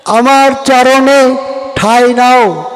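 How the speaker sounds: slow, solemn divine promise; a slow, lightly voiced divine call; Krishna speaking slowly. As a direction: give each word weight, drawn out slowly. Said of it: "কি বলেছেন?".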